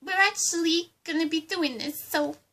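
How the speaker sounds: lightly put-on Harley Quinn accent; a hint of Harley Quinn's Brooklyn accent; bubbly sidekick in a mild Harley Quinn accent.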